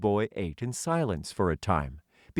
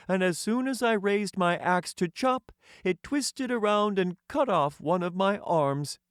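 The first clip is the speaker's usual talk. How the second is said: Tin Man voice; 11 semitones higher than usual. Acted. The Tin Emperor welcoming a hungry stranger, high and stately. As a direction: lift the voice high and speak as a courtly tin ruler.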